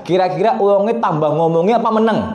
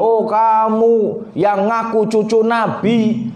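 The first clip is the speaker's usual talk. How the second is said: acted taunting; 4 semitones higher than usual. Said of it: "ngata-ngatain Imam Ali Zainal Abidin".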